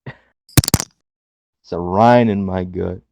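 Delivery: slow, drawn-out catchphrase delivery; imitating Cameron Grimes. Podcast cohost imitating a wrestler's catchphrase, slow drawn-out. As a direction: stretch it out like a wrestling promo. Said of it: "Didn't Cameron Grimes say that?".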